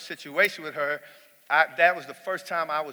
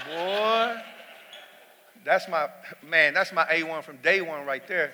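proud laughing; 3 semitones higher, 4 dB louder than usual. Real, not acted.

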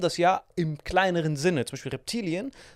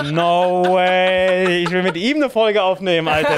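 aufgeregt, lachend; 3 semitones higher, 8 dB louder, slower than usual. Retold or imitated. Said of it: "Ich so".

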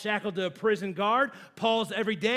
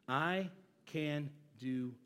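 hushed; 8 semitones lower, 9 dB quieter, slower than usual. Acted. Preacher drops to hush.

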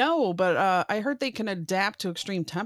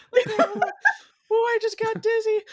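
surprised; 14 semitones higher, 5 dB louder, faster than usual. Real, not acted. Reacting to alien noise.

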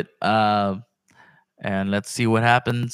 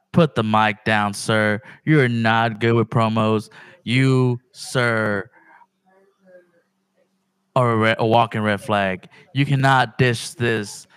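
mock promo, slow and pointed; wrestling promo. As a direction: call out the champ, wrestling style. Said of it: "I'm gonna cut a promo".

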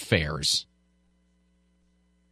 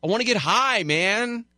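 stoner voice; 10 semitones higher than usual. Retold or imitated. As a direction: play a laid-back stoner. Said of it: "Just say".

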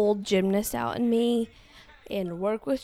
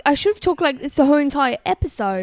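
mock southern accent; 4 semitones higher, 3 dB louder, faster than usual. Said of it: "he's talking in a southern accent".

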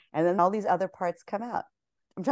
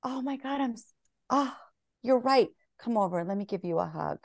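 tender comfort; 4 semitones higher than usual. Pretend. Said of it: "but it's like".

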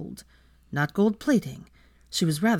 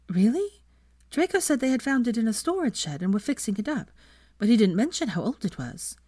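put-on young woman voice; 5 semitones higher than usual. Hermione voiced by narrator.

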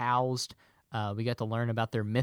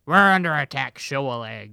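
alarm shout; 9 dB louder than usual. Acted. Acted pirate alarm call.

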